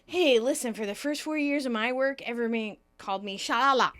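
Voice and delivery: mock aggrieved lament. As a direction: protest your old grievance, punching the last word. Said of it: "Chandler laments".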